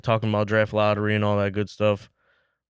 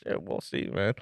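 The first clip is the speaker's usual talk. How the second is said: whispered; 3 semitones lower, 10 dB quieter than usual. Real, not acted. Muttered doubt after a laugh.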